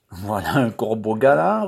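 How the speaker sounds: lively teasing reply; lively retort. Acted. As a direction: toss it back playfully. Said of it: "repartit vivement Cyprienne".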